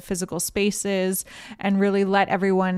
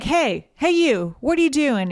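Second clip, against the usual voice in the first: higher-pitched mock call-out; 6 semitones higher than usual. Merida shouting after a stranger in the night, calling out.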